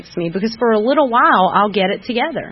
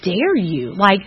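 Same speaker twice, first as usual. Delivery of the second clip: mock indignant retort, slow at first; half-hearted imitation of past anger; retold indignation; 3 semitones higher than usual. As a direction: replay your own huffy comeback. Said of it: "And I was so angry".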